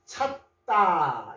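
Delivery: 찾다 split into 찾 and a long 다; sounded out. Shown as a demonstration. Teacher showing how the verb sounds, slowly sounded out. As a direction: draw out 찾다 syllable by syllable. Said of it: "이렇게 되죠".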